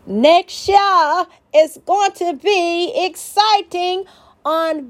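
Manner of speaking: high, slow hype; excited. Real, not acted. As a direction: sell the excitement for next year. Hypes next year in outro.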